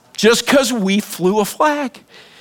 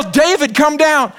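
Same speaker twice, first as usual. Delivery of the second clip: raised, louder call upstairs; louder yell; 9 semitones higher, slower than usual. Retold or imitated. Parent calling son again, louder yell. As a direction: shout it up the stairs. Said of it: "I yell".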